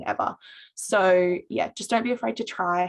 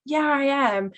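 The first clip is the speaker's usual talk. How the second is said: higher bright retold reply; cheerful yes; 7 semitones higher, 4 dB louder than usual. Student confirming she is from ISA, higher cheerful reply. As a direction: replay your own chirpy answer. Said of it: "I was like".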